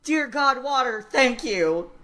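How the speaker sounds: a parched man finally seeing water; mock-relieved slow thanks; grateful thirsty NPC. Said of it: "he was like".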